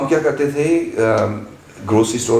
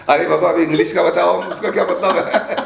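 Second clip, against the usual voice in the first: laughing protest; 6 semitones higher than usual. Retold or imitated. Retold protest about French class.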